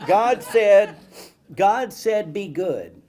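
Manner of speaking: loud, high mock-sermon proclamation; child playing preacher. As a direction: proclaim it from a pretend pulpit. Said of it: "what I thought what preaching meant".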